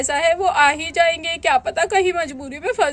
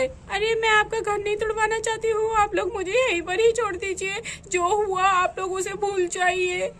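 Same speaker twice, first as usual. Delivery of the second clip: put-on pleading young woman; 3 semitones higher, 5 dB quieter than usual. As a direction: gently beg them to leave her behind.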